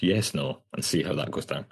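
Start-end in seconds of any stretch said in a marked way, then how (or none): 0.0-0.6 lightly mocked posh Scottish; a touch of posh Scots; posh Scottish accent. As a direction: put on a slightly genteel Scottish accent. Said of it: "in a really posh Scottish accent".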